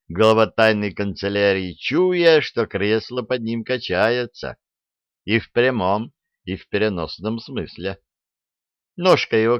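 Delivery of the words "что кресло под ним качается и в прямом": ordinary delivery, nothing marked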